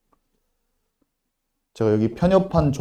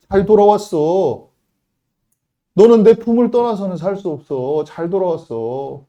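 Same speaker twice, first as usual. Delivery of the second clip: tender welcome; 2 semitones higher than usual. Acted. God welcomes back the prodigal.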